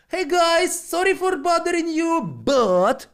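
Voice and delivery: high, bright apologetic greeting; approaching people on Rodeo Drive, high polite apology; polite stranger. Retold or imitated.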